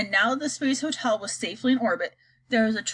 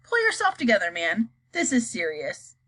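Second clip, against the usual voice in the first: snapped. Acted. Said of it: "snapped ground control".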